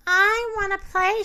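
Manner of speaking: pleading. A narrator's reading. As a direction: plead like a left-out puppy. Puppy left inside, longing.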